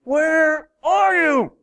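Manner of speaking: high, slow, drawn-out plea; plaintive slow cry. Shown as a demonstration. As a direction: stretch it high like a lost child calling. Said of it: "Have you ever prayed that?".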